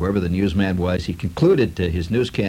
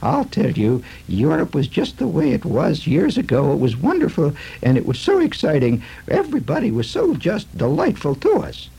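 gushing lady; 5 semitones higher than usual. Retold or imitated. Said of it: "there's a lady that says".

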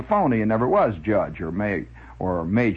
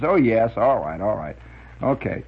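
tired sigh; 2 semitones lower than usual. Retold or imitated. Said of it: "she gets this tired sound in her voice".

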